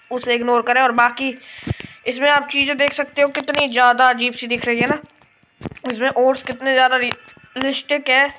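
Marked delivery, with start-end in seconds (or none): 2.1-8.3 speech broken by hiccups. Real, not acted. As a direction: hiccup between words. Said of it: "हिचकी को ignore करना".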